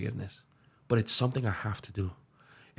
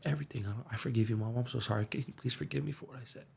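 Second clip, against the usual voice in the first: soft apology; 6 dB quieter, faster than usual. Retold or imitated. Retold apology while hugging mom.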